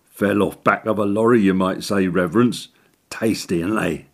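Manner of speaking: lightly voiced sly cockney workman; a hint of a cheeky Northern handyman.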